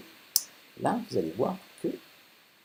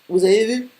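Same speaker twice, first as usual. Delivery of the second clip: high, loud startled exclamation; surprised outburst; 12 semitones higher, 10 dB louder than usual. Real, not acted. Tutor startled as the arm passes through the face, surprised. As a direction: blurt it out, caught off guard by the glitch. Animation glitch appears on screen.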